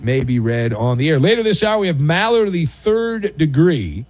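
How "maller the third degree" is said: slow, drawn-out segment title; segment announcer. Real, not acted. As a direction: announce the title with deliberate weight. Segment title announced, then repeated.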